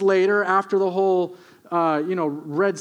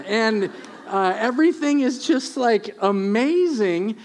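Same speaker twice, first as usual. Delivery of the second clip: higher, hesitant and half-laughing; sheepish Obed; 5 semitones higher, 3 dB louder than usual. Acted. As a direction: fumble the secret with giggles. Obed sheepishly explains his success.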